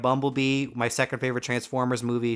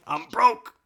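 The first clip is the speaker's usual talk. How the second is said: mock whine; 10 semitones higher than usual. Mocking spitter's excuse.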